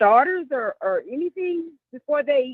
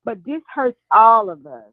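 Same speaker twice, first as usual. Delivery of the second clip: muffled, far from the phone. Real, not acted. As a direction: talk away from the mouthpiece. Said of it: "you sound kinda muffled".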